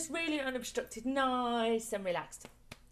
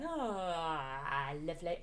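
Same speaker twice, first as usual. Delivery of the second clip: open-mouthed ah; 8 semitones lower, 5 dB quieter, much slower than usual. Shown as a demonstration. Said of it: "just with an open mouth".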